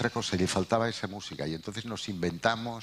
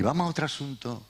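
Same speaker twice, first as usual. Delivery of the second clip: "vamos a otro asunto" sung out much higher and quicker in a lilting Andalusian tune, with love in it; Andalusian melody; 9 semitones higher, faster than usual. Shown as a demonstration. The son gently steers his mother away from pain in an Andalusian lilt. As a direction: let "vamos a otro asunto" ride up high and fast on the Andalusian music, tender to the mother. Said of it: "quiere decir un poco de amor".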